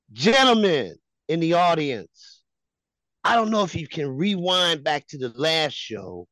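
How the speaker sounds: slow, grandly stretched key words with pauses; showman's announcement. Acted. Host tells the audience of a rival's defeat, grandly announcing. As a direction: proclaim it to the crowd like a ringmaster.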